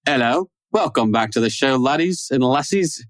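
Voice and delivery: a lightly Scottish lilt, slow on laddies and lassies; host welcoming listeners back in a lightly Scottish accent; weird Scottish-ish accent. Pretend. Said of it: "I'm morphed into some other weird accent".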